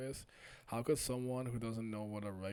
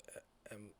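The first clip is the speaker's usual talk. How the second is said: whispering; 13 dB quieter than usual. Real, not acted. Hesitant name before calling out.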